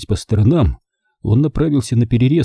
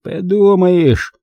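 high, drawn-out scoff; breezy, slow dismissal; dismissive; 9 semitones higher, 4 dB louder, much slower than usual. A narrator's reading. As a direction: wave it away, stretching the word. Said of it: "отмахнулся тот".

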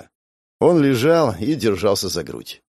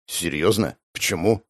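lower, softer unbothered question; cool mockery; 5 semitones lower, 4 dB quieter than usual. A narrator's reading. Hero calmly mocking the armed thug. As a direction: ask coolly, unimpressed.

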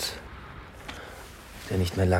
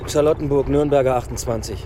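raised voice; 7 semitones higher, 7 dB louder than usual. Acted. Tells driver address over noise.

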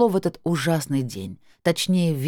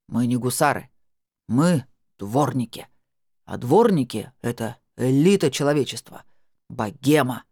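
proud proclamation; 4 semitones lower than usual. Acted. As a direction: announce it with puffed-up pride. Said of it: "провозгласил Семён и гордо".

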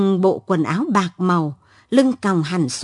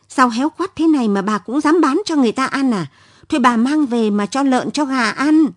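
put-on fast, higher, scornful young woman; harsh scornful voice; 3 semitones higher, faster than usual. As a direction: sneer at the old seller, quick and cutting. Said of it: "Giọng con gái chan chát có phần cay nghiệt".

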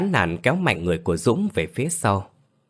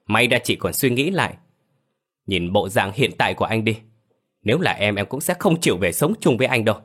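gắt giọng; 2 semitones higher than usual. Acted. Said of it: "rồi gắt giọng".

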